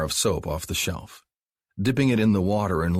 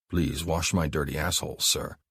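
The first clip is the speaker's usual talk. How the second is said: Mark's dictation. Acted. Mark tells Abby what to say, commanding. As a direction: hand her the words to repeat. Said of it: "Abby closed her eyes".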